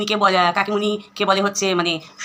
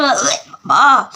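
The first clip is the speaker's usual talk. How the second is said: mock retching; 6 dB louder, much slower than usual. Gags in disgust at paan mess.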